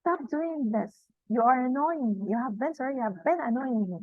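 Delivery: mildly annoyed telling-off; acted annoyance. Shown as a demonstration. Teacher demonstrating a complaint to someone annoying her, mildly annoyed. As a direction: play a touch of exasperation. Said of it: "intonation to express anger".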